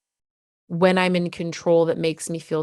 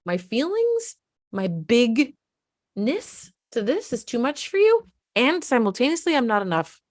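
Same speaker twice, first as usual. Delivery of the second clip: put-on anguished kid; 5 semitones higher than usual. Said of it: "one of their biggest things too is".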